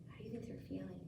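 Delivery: hushed whispered question. Real, not acted. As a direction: breathe the question softly. Teacher repeats question in whisper.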